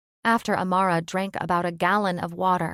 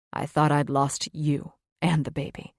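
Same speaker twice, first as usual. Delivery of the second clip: tearful male mate; 4 semitones lower than usual. Acted. Luke weeping, lower voice.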